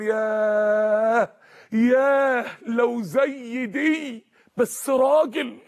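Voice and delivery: long drawn-out, yearning "ياه"; slow sigh of a wish, lightly acted; wistful longing. Zakaria looking at Maryam and wishing, wistful longing.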